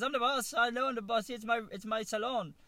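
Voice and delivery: put-on high, loud, rough Asian accent; mock Asian accent. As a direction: imitate an insistent hairdresser in an Asian accent. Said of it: "do the Asian accent".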